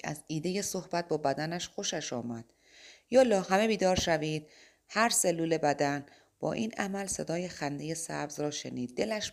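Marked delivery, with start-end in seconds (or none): 3.1-6.1 rousing shout to his own body; loud wake-up call. Acted. Mike calls on every cell of his body, a loud rousing shout.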